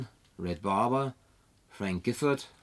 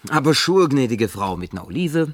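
louder, higher showman barkeeper welcome; playing bartender; 3 semitones higher, 10 dB louder than usual. Man plays barkeeper for the woman in the empty bar, loud and showy. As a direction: greet her grandly like a bar host.

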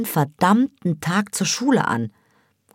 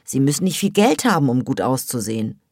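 high, louder scornful rant; scornful gossip; 5 semitones higher, 3 dB louder than usual. A narrator's reading. A girl sneering at the boys to her friend, high and scornful. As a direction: look down your nose at them. Hava mocks Turkish boys' taste.

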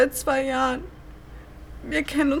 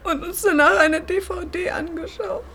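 tearful. Acted. Remembering last evening together.

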